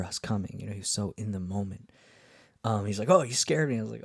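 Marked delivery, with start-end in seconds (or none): 3.1-3.8 imitating a startled fisherman, higher and louder; mild jolt of surprise, retold.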